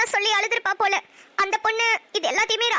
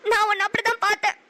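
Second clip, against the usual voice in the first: tearful. Acted. Hurt sister's tearful reproach.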